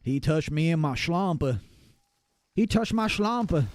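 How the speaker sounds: slow Southern American drawl on Schlampe; Southern American accent. Pretend. Joking in a Southern American accent, slow. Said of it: "with the Southern American accent".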